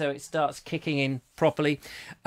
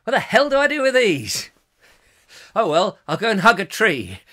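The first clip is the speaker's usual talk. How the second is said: mock Julia; 4 semitones higher, 5 dB louder than usual. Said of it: "Julia ... going".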